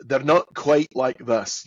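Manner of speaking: slow Scottish burr; Scottish accent laid on strong; exaggerated Scottish R's. Shown as a demonstration. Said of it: "his Scottish R's aren't quite".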